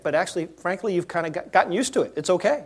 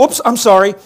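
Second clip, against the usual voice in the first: mock casual oops; 3 semitones higher, 11 dB louder than usual. Acted careless apology.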